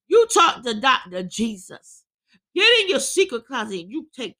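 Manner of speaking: impassioned preaching, driving through the list. Real, not acted. Preacher urges troubled listeners to confide in Jesus, impassioned preaching. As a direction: preach it with rising force. Preacher at full force, building.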